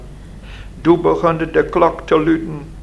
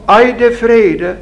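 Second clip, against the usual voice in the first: raised, louder cry of disbelief; indignant exclamation; 7 semitones higher, 6 dB louder than usual. A narrator's reading. Visitor challenges Raket's claim of peace, exclaiming. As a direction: cry it out, high and incredulous. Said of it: "riep de kaarsman".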